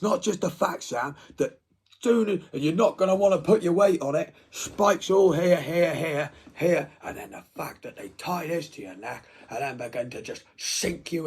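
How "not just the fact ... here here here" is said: loud, higher, rushing detail; thrilled torture-fan rant; excited. Real, not acted. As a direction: pile on the gory detail eagerly. Excited describing spiked chair.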